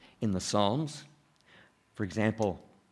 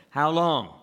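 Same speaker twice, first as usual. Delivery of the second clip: emphatic refrain; 4 semitones higher, 5 dB louder than usual. Real, not acted. Preacher's rhetorical refrain.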